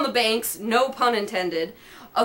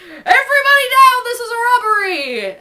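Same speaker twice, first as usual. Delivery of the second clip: much higher, louder yell through laughter; yelled holdup; 11 semitones higher, 7 dB louder than usual. A narrator's reading. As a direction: bark it like a robber storming in. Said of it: "yelled Harry".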